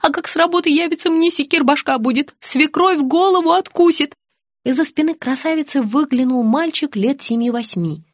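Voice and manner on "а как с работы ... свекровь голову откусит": put-on panicky young wife. A narrator's reading. Flustered girl fearing mother-in-law.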